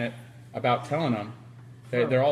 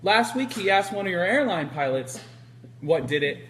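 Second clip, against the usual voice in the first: gleeful gotcha; 5 semitones higher than usual. Retold or imitated. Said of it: "And Greg goes".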